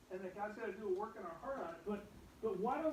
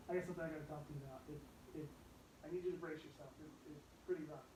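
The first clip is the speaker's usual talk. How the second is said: mock grave warning; 3 semitones lower, 7 dB quieter, faster than usual. Mock ominous build-up to parents.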